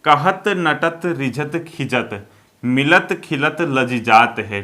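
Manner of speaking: slow, rhythmic verse reading; slow poem recital; poetry recitation. Shown as a demonstration. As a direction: recite the couplet slowly. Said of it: "जैसे एक example".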